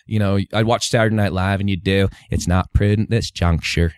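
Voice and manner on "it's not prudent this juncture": slow comic impressionist's politician; Dana Carvey. Shown as a demonstration. Kid copying Saturday Night Live, slow political impression. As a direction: drag it out like a sketch-show president. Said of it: "the Dana Carvey".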